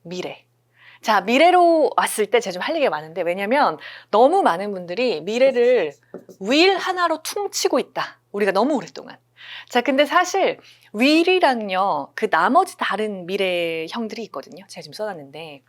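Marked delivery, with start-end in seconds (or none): 0.0-0.5 whisper. Real, not acted. Teacher drops voice to whisper. 14.7-15.6 whisper. Real, not acted. Whispered aside while writing.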